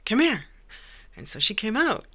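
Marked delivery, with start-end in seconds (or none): 0.0-0.4 high, louder mock call to her kid; playful high yell from the mother gerbil; mom gerbil yelling. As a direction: call the pup out like a mother hollering. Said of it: "she literally yelled for her kid".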